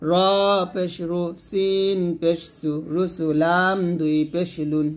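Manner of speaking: measured recitation with stretched letter names; Arabic spelling drill. Shown as a demonstration. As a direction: recite letter by letter for pupils to follow.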